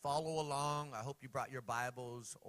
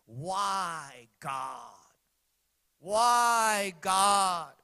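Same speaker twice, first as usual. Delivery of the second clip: loud anguished cry to God; 4 semitones higher, 11 dB louder, much slower than usual. Retold or imitated. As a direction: cry it out, pleading. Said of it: "He cries that out".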